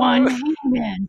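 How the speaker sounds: slow, loud monster Santa; growling bugbear. Pretend. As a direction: drag it out like a zombie. Zombie Santa, slowed.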